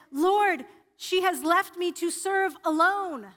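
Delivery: slow, aggrieved plea to the Lord; a touch of an overwhelmed Martha; Martha's complaint. Acted. Martha's complaint voiced in sermon.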